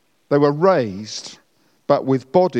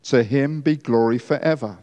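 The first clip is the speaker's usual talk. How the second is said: hushed graveside prayer. Shown as a demonstration. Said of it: "this is what I will say".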